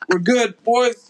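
high-pitched mock reassurance to the crew; imitated Navy pilot. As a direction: call to your boys like a cocky pilot. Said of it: "these Navy guys".

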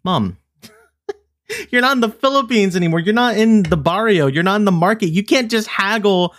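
high, fast laughing scold; scolding through laughter. Retold or imitated. Granddaughter scolding grandma, laughing in disbelief. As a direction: scold her while cracking up. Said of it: "I was like".

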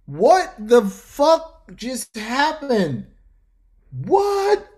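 high, loud, slow stunned outcry; inner disbelief. Retold or imitated. Employee reacting inside to the warning, loud high disbelief. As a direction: stretch it out in shock, way up high. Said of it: "in my mind".

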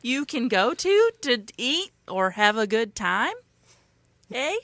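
slow, lilting put-on Canadian; attempted Canadian accent. Host plugging places to eat in attempted Canadian. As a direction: stretch it out in amateur Canadian. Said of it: "And now for Canadian".

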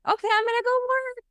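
put-on high, fast and chirpy boyfriend reply; a quick sing-song okay from the boyfriend; cheery husband voice. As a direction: toss it off brightly on the way out. Tommy's quoted reply.

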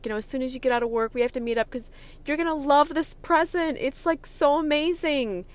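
high, loud, breathless gushing friend. Retold or imitated. Friend on the phone, hyping a gift, squealing excitedly. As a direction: gush like she can't contain herself.

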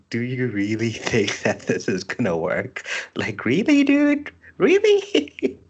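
disbelief breaking into a high laughing squeal; incredulous official. Retold or imitated. Clerk reacting to a doomed arrest warrant, incredulous. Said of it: "someone is just sitting there, it's like".

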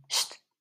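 short hissed "sst"; shush. A narrator's reading. Jules hushes Andy during the video, hissed shush. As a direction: cut him off with a quick shush.

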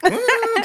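high-pitched mock whiny "mm"; imitated child's whine. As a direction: mimic a fussing child's squeal. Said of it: "and he's like".

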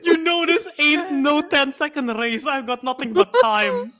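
slow, lightly gruff movie line; half-hearted tough guy; mock Vin Diesel. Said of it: "the quote".

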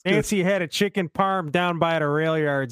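chatty Chicago guy telling a tale; Italian-ish Chicago accent. Shown as a demonstration. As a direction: do a relaxed Chicago local. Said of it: "Italian-ish".

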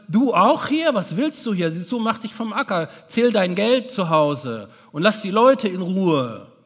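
a scornful get-lost; dismissive. Retold or imitated. What Jesus could have said to the tax collector, dismissive. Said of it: "Er hätte auch sagen können".

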